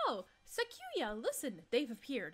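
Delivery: theatrical, swooping prophet of doom; melodramatic bird character. Acted. Bird warning a friend of white demons, grand and melodramatic. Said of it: "get a real good voice for this bird".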